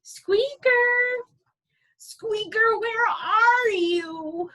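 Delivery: high calling voice searching the forest. Acted. Lucy calling for her lost pet, high and loud.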